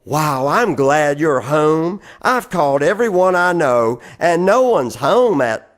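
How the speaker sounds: relieved caller. Retold or imitated. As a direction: sound glad someone finally picked up. Friend's relieved call quoted.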